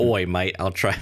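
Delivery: a light Aussie "Oi, mate" that comes out Australian instead of British; mock Australian accent. Host trying a UK voice actor, lightly Australian accent. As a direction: toss off a casual Aussie bloke line. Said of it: "That's not U K, but that's Australia".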